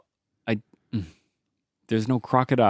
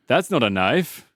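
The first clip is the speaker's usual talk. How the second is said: too happy; slower than usual. Acted. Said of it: "You're too happy".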